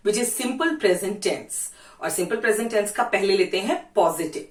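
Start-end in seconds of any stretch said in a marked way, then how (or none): 0.1-1.7 name the tense slowly and deliberately; very slow classroom announcement; slow, clear teacher voice. Shown as a demonstration. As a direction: spell it out for the class, unhurried. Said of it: "अपना first tense लेते हैं".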